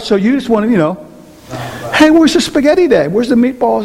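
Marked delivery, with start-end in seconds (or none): 1.9-3.8 trying-to-be-nice husband. Retold or imitated. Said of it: "you wanna be Christian about it".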